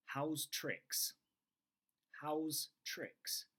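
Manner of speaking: "How's tricks?" pitched high, falling on "How's"; high model phrase. Shown as a demonstration. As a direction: lift "How's tricks?" up high and let it fall. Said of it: "shadow me".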